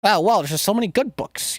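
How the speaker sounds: a hint of a know-it-all Brian; Brian from Family Guy. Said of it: "I feel like Brian off of Family Guy".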